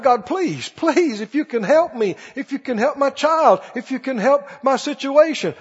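mild, repetitive pleading; imitated crying out. Preacher voicing people crying out to God, mildly pleading. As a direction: lightly act out a desperate prayer. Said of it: "people crying out".

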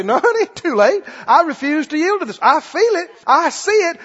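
emphatic preacher's rebuttal; defiant retort. Acted. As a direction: answer back boldly to the tempter. Acted defiant answer to the devil.

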